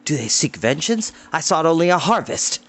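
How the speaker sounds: ruined farmer's bitter complaint; bitter retort. Acted. Farmer to Tarn over trampled crops, bitter. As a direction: fling each line back at them. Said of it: "Adan flung back".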